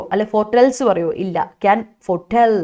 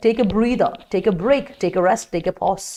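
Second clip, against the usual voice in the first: slow dictation; much slower than usual. Shown as a demonstration. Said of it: "dictating synonyms slowly".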